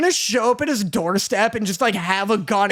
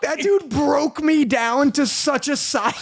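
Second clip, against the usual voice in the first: laughing; 4 semitones higher, slower than usual. Real, not acted. Cracking up over his humiliation.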